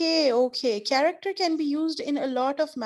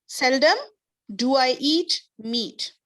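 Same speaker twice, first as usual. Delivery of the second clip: Seldom louder and rising, then a pause, rest slow; stress on seldom; 2 semitones higher, 3 dB louder, slower than usual. Shown as a demonstration. Teacher shows students the inverted order, stressing Seldom. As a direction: punch Seldom, pause, then slowly do I eat meat. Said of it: "That is the inverted order".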